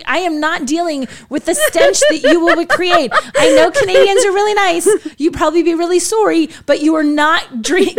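mock-stern refusal. Telling six journalists no burritos before the car ride, mock-stern refusal. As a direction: lay down the law, half laughing.

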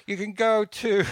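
put-on high, loud English accent; David Beckham voice. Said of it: "this is my David Beckham voice".

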